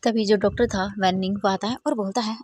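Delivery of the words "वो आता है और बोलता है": ordinary delivery, nothing marked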